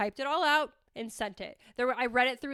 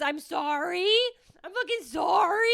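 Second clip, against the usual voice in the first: mocking herself; 5 semitones higher than usual. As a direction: act out her own forced sorry. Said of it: "you're like this".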